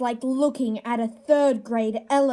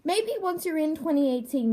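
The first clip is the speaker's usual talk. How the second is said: normal talking voice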